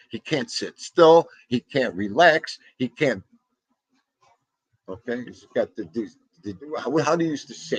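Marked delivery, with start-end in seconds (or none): 0.1-3.2 imitating father. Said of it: "he's got the umbade up the ass".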